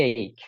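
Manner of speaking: "এইক" as one syllable, eik; correct pronunciation. Shown as a demonstration. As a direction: say "এইক" with a gliding vowel and hard k. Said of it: "এটার উচ্চারণ হচ্ছে".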